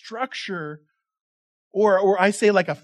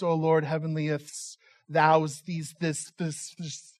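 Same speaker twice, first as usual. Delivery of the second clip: mock King James prayer; 3 semitones lower, slower than usual. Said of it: "know how to pray in King James Version".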